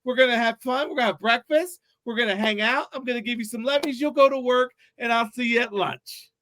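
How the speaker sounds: lightly voiced, excited dog full of plans; eager dog voice. A morning dog eagerly greeting its owner, lightly voiced excited.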